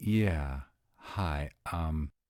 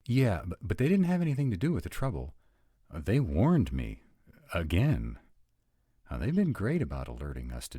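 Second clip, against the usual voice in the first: urgent protest; 3 semitones higher, 5 dB louder, faster than usual. Acted. Alex defends Spark to the prince, urgent protest. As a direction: jump in and insist on their innocence.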